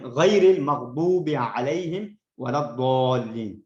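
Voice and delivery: correct recitation. Shown as a demonstration. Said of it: "تو اس کو غلطی سے ہم".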